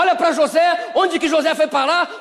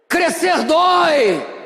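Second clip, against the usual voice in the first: emphatic repeat; 4 semitones higher, much slower than usual. Acted. Preacher booms the doctor's words to the congregation. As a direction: hammer the phrase home.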